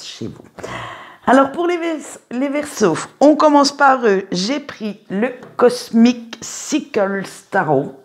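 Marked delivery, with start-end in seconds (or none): 5.6-8.0 slow, careful English accent on "Cosmic Sickles Tarot", French vowels showing. Real, not acted. Tarot reader naming her deck for viewers, in a slow, self-mocking English accent. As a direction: sound out the English deck name in a self-consciously proud English accent. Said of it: "mon accent anglais est magnifique".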